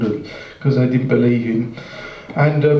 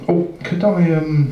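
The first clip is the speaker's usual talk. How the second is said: mild nervous hesitation, a little higher; nervous rabbit; 4 semitones higher, slower than usual. Acted. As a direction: falter lightly as a timid rabbit placing an order. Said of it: "he's very nervous by now".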